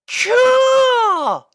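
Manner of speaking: very high, loud cheer; excited shout. Acted. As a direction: squeal it with delight. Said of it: "exclaimed all the Cutie Mark Crusaders".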